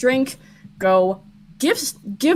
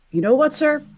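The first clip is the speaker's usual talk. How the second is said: sudden pivot; 10 semitones higher than usual. Acted. Conman backing off, sudden pivot.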